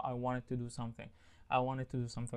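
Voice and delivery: "wanted to" linked up in a relaxed American way; casual native pronunciation. Shown as a demonstration. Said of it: "بس الأمريكان native speakers بقى".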